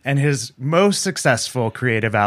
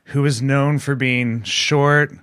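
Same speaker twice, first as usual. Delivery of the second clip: mock eulogy. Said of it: "gathered here today to mourn".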